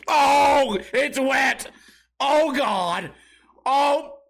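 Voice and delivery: hammed-up dawning horror; mock horrified realization. Realizing he soiled himself.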